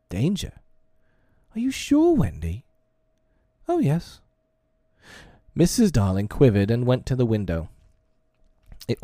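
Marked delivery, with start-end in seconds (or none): 0.1-2.6 high, anxious questioning; worried mother, pitch jumping up; alarmed mother. A narrator's reading. 3.7-4.2 put-on high-pitched little girl's answer; lightly voiced girl, pitched up; certain child. A narrator's reading.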